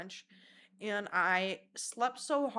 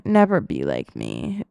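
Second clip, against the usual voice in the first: deep mock warning; 13 dB louder, slower than usual. Shown as a demonstration. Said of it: "repeated warning".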